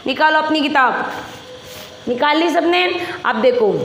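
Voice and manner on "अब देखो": normal talking voice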